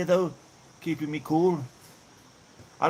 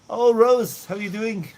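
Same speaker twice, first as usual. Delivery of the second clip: excited greeting; 6 semitones higher, 6 dB louder than usual. Real, not acted. Greeting viewer in live chat.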